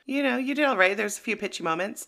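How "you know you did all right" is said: Simon Cowell verdict. Pretend. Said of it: "If I were Simon Cowell, I'd say".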